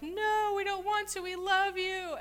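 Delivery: high, loud imitation of pleading daughters-in-law; pleading protest. Daughters-in-law protest being sent away.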